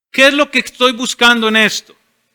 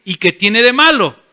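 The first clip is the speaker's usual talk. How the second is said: objector's retort. Pretend. Churchgoer challenging the pastor, mildly defiant. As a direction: push back like a skeptic. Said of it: "alguien va a decir".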